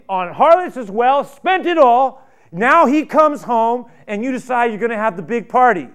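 loud, high, furious rant; angry older brother. Acted. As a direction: let the resentment explode at the father.

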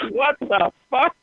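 slow, stunned mock disbelief; shocked nephew. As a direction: drag it out in disbelief. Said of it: "He goes".

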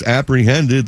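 "apprehended" slowed, with stress on HEND; emphasized word. Real, not acted. Host explaining the border count, "apprehended" slowly stressed. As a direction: draw out "apprehended" to make the point. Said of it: "you notice I emphasized the word".

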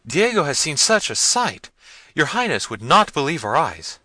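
high, loud helpless wail; frightened servants. A narrator's reading. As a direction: answer your master high and flustered. Jaquez, frightened.

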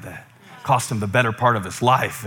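ordinary talk, nothing marked

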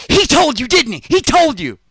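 high, loud gleeful accusation; knowing laughing taunt. Retold or imitated. Woman teasing the narrator about Donnie, high gleeful taunt. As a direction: crow it like you caught him.

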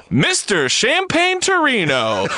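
slow, high, laughing mock announcement; mock grand title. Reading the cops' nickname for him, slow and laughing. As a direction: savor the silly title through a laugh. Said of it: "this is how they're now talking about him".

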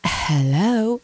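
put-on affected London-accented phone greeting; drawn-out London-style hello; brother-in-law's affected accent. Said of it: "I imitate him every time".

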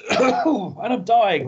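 choking on spit; coughing through the words; swallowed wrong way. Real, not acted. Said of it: "spit went down the wrong way".

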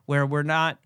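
slightly blocked nose from a cold; stuffy nose. Real, not acted. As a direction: talk with a stuffy, congested nose. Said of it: "if I sound a little stuffy".

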